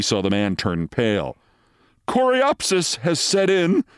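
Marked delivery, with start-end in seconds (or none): 2.1-3.8 slow, high-pitched nervous announcement. A narrator's reading. Doctor reports the bad turn to a colleague, nervously. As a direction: raise the pitch with nerves and draw it out. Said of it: "said Renshaw nervously".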